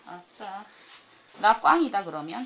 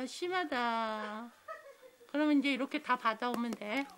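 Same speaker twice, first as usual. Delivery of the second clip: ordinary talk, nothing marked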